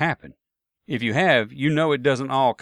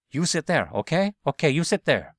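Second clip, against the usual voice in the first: imitating a broken-English Asian accent, higher; mock Asian accent, pitched up; 4 semitones higher than usual. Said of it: "in broken English with an Asian accent".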